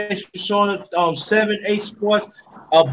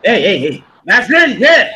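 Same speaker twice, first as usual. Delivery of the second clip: hype cheering; 4 dB louder than usual. Real, not acted. Cheering on guest, louder.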